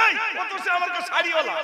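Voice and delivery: quick, high, laughing brush-off; mother waving her son away with a laugh; amused dismissive mother. Retold or imitated.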